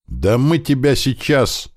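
a thug lunging with a threat; threatening. A narrator's reading. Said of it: "Угрожающе". (угрожающий выкрик)

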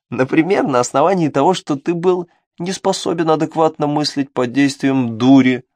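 scheming little devil voice; sly imp voice. Acted. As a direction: tempt him, sly and sneaky. Imp after giggling.

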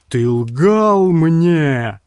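very slow, loud rumble; rumbling. A narrator's reading. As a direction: roll the words out in fury. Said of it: "пророкотал Карстерс".

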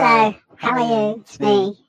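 high voice-morpher greeting; pitch-shifted voice. Shown as a demonstration.

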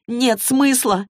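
Clary yells "Нет смысла" back at Magnus; yelling. A narrator's reading. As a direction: throw the words back at him in outrage. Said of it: "заорала Клэри".

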